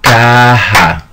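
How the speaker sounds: Caja slow and clear, in two syllables KA-ha; Spanish word Caja. Shown as a demonstration. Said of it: "let's do with, uh, three words".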